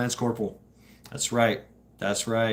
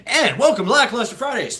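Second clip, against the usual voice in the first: laughing through the welcome, higher; laughing intro; 9 semitones higher, 5 dB louder than usual. Real, not acted. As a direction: greet them while cracking up.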